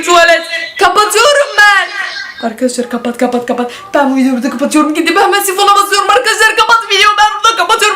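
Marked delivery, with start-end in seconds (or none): 4.9-8.0 panicked shouting. Real, not acted. Panicked ending of video.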